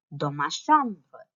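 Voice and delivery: slow, careful title read; slow model reading. Shown as a demonstration. Teacher models the title, slow and careful. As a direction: spell out the title slowly for pupils. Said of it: "here is your title".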